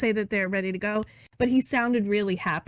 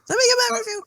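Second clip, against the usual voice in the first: sing-song repeat; 11 semitones higher, much faster than usual. Shown as a demonstration.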